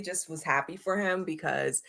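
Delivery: whispered sincerely; unvoiced confession of being happy for him. Real, not acted. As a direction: say it under your breath. Whisper heard on line.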